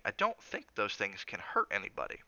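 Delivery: weight on every word of "I don't think those things can hurt anybody"; mildly spaced stresses through "I don't think those things can hurt anybody"; each word emphasized. A narrator's reading. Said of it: "He emphasized each word in the sentence".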